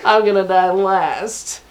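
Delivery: slow, laughing through the words; slow quote broken by laughter. Retold or imitated. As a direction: giggle through a slow mock taunt. Boss quote while laughing.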